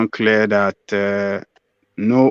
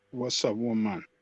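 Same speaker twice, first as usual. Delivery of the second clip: quieter, sleepy-sounding, tired voice; 13 dB quieter than usual. Answering when asked if still on the line: tired voice. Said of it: "I can hear tiredness in your voice".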